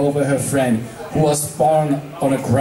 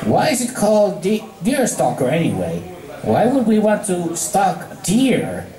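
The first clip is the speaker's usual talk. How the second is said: confused; 5 semitones higher than usual. Acted. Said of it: "looking quite confused".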